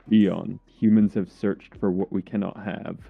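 movie trailer voice. Acted. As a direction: announce it like an epic film trailer. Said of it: "the trailer voiceover".

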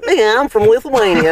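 put-on Lithuanian accent. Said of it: "Do a Lithuanian".

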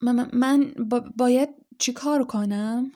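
put-on nervous boy stumbling over his words; a shy guest stammering before the fireplace. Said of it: "با لکنت گفت".

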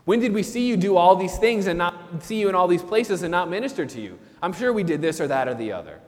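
mild defensive denial; denying. Acted. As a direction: brush off the critique. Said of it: "they're denying".

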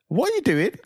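put-on child walking in on parents, shocked. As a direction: gasp it out as a stunned kid. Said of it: "He'll be like".

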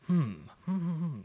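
exaggerated pondering hums; thinking hmm. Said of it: "Tap my chin, tap my chin".

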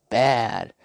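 mock swagger; Ali boast. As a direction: spit it out proudly.

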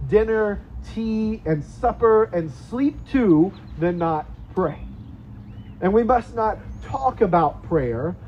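put-on slow, earnest reading of an old quote, lingering on key words; solemn quote reading. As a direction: read it like a weighty charge to the church.

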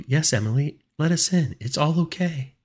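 high, coaxing sister voice; high-pitched gentle reassurance; warm and gentle. A narrator's reading. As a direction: coax sweetly in a high voice. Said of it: "warm and gentle".

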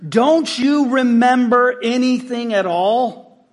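Jesus scolding forgetful disciples, slow and exasperated. Acted. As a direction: press each question like a worn-out teacher. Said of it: "That's exasperation".

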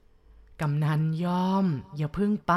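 slow, drawn-out mocking ghost call; ghostly call. Ghost calling the chief back as he leaves, slow taunting. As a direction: draw every word out, taunting. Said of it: "มีเสียงร้องตะโกนมาอีก".

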